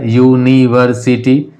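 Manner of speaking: यूनिवर्सिटी lightly split as yu-ni-var-si-ti; measured, slightly slowed syllables in यूनिवर्सिटी. Shown as a demonstration. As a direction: say यूनिवर्सिटी in five distinct but connected beats. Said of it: "five syllable में हो गया".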